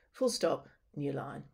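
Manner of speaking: spoken as a voice command to the computer; dictation command. Shown as a demonstration. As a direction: dictate the punctuation clearly. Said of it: "I'm also gonna say some things that seem a bit odd".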